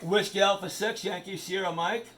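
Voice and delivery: radio call sign. Shown as a demonstration. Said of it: "This is how it works".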